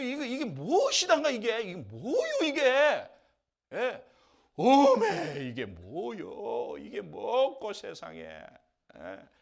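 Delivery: loud, high Jeolla-style cries of wonder; amazed delight. Retold or imitated. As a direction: gush over the strange food like a thrilled villager. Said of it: "하면서 막 그냥 궁금해가지고 막 기뻐한 거예요".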